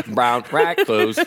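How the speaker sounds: slow choppy speech-synth voice; like a malfunctioning Speak and Spell; glitching robot. Shown as a demonstration. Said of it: "Like Stephen Hawking".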